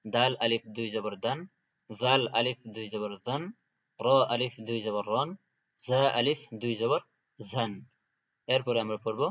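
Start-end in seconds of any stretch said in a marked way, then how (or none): 0.1-7.7 each letter spelled with a rise, then the tanween syllable; teacher recitation drill. Shown as a demonstration. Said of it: "এই চারটার উচ্চারণকে একসাথে পড়ব".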